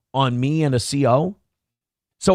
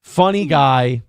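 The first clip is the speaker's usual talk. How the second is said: sarcastic praise; slower than usual. Pretend. Sarcastic mock praise of joker.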